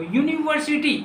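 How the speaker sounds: यूनिवर्सिटी starting on a clear "yu" glide; model pronunciation. Shown as a demonstration. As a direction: sound out यूनिवर्सिटी high, falling at the end. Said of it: "ये pronunciation लीज बोलिए इसको".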